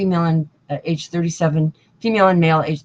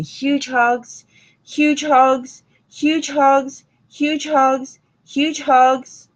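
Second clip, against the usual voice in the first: high-pitched, sing-out repeated send-off; effusive affection; 8 semitones higher, much slower than usual. Real, not acted. Telling a loved one "I love you", effusive high send-off. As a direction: send each hug out high, like a chant.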